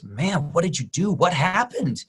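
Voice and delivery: lightly voiced astonished Kevin Hart; mock amazement, pitch up; Kevin Hart amazed. Kevin Hart stunned at the transformed Rock, mildly mock amazed. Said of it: "And he goes".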